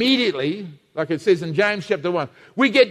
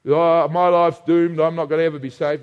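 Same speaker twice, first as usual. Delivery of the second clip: despairing doubter; 4 semitones lower than usual. Retold or imitated.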